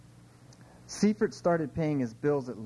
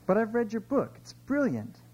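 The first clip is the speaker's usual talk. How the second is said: much higher, eager admiration; gushing fan; 10 semitones higher than usual. Acted. Woman praising the famous author on a plane, gushing. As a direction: gush like a starstruck fan.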